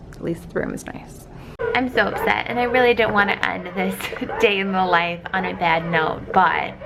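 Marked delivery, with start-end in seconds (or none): 0.1-1.3 "At least the room is nice" whispered, unvoiced and much softer; hushed whisper. Real, not acted. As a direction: barely breathe "At least the room is nice", half to herself. Repeats consolation, hushed.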